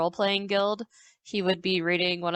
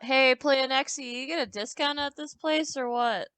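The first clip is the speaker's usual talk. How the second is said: higher-pitched, lightly acted call-out; 5 semitones higher than usual. Bozic asks a tavern worker for a discount, lightly calling out. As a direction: call over to someone, pitched up but not shouting. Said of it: "Bozic would call out".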